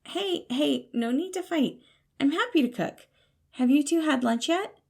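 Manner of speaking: high, eager, fatherly voice breaking up a fight; cheerful peacemaker Patton. Acted. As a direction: soothe them brightly, like a dad. Patton calms a quarrel.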